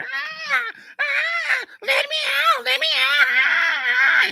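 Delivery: high, loud crying cat voice; mock cat whine, high and loud; whining cat. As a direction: wail to be let out like a trapped cat. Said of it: "he'll get to whining like".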